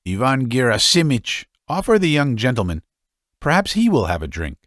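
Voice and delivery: affected, lingering on the last word; mincing drawl. Acted. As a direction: virago urging the father to offer a drink, mincing. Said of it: "pronounced in a mincing drawl".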